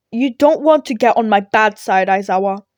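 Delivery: loud, hammed-up threat; mock menace. A narrator's reading. All Might warning Aizawa on his way out, mock menacing. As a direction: puff up and threaten playfully. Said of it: "turning around menacingly".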